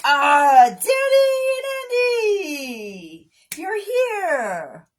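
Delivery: high delighted shout of welcome; excited greeting. Real, not acted. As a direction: greet a friend joyfully. Greeting viewers arriving on live.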